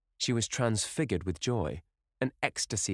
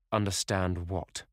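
mild anger; slower than usual. Acted. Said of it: "he asked angrily".

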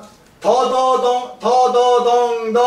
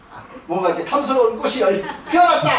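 surprised; 4 semitones higher, faster than usual. Shown as a demonstration. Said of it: "놀라셔야 됩니다".

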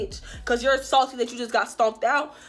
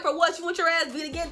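teasing taunt; 4 semitones higher than usual. Retold or imitated. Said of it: "So I'm just teasing her ass".

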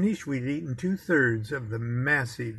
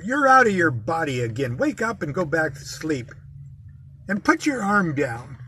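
retold yell; 2 semitones higher, 4 dB louder than usual. Wife yelling at husband to wake up, mock yell. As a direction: bark it like a fed-up wife jabbing him awake. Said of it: "yells in my ear".

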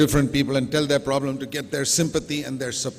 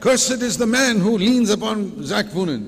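loud declaration; 6 semitones higher, 4 dB louder than usual. Acted.

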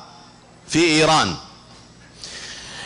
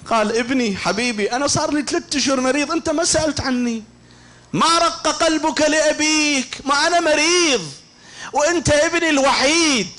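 grieving father's plea; 10 semitones higher than usual. Retold or imitated. Sick father reproaching his only son, lamenting. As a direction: plead with the absent son, wailing.

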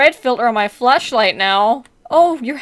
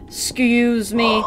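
polite excuse me; slower than usual. Retold or imitated. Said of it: "I just wanna go".

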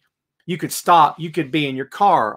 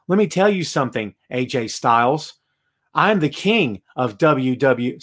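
stiff, robotic wrestling promo; Baron Corbin; 3 semitones lower than usual. Retold or imitated. Host mimicking a wrestler addressing AJ Styles, lightly robotic. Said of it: "they sound just like this? Case in point, Baron Corbin".

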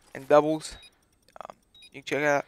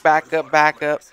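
loud, urgent repeated call; 9 dB louder than usual. Retold or imitated. Walmart manager calls for backup on his pager, loud and urgent. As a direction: bark it into the pager.

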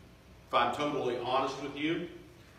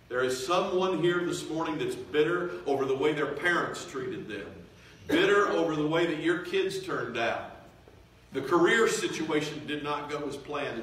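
raised, emphatic pulpit delivery; impassioned preaching; 5 semitones higher, 4 dB louder than usual. Real, not acted. Preacher naming those bitter over family, with fervor. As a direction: hammer the key word of each case. Continues listing hurts from pulpit.

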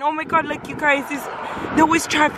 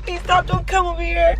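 re-enacted plea, pitched a bit higher; retold begging; 4 semitones higher than usual. Owner retelling the oncoming truck, higher begging voice. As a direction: replay pleading with oncoming traffic. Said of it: "I was like begging".

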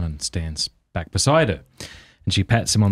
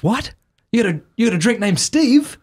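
much higher, louder surprised question; surprised screwdriver; 4 dB louder than usual. Retold or imitated. Screwdriver answers the bartender, high surprised voice. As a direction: sound amazed and baffled.

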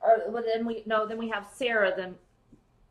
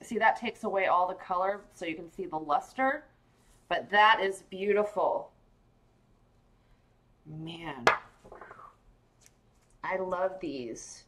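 soft unvoiced whisper over the pearls; hushed show-and-tell whisper; 4 semitones lower, 3 dB quieter than usual. Real, not acted. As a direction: whisper it as if not to disturb anything. Whispering while showing the pearls.

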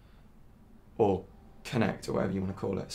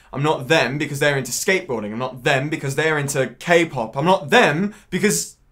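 raised voice, rushing through a list; agitated rant; 4 semitones higher, 5 dB louder than usual. Acted. Man setting himself apart from others, agitated. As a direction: build louder and higher with each rejection. Lists who he is not, agitated.

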